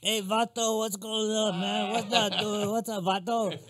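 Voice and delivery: high, playful buddy greeting; joking imitation of a casual Mexican greeting; mock street greeting. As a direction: toss out a slangy hey vato like a pal.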